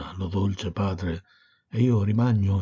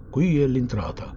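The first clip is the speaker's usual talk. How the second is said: a called-out order, pitched up; ferryman's shout; 5 semitones higher than usual. A narrator's reading. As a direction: call it across the water like a boatman. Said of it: "gridò".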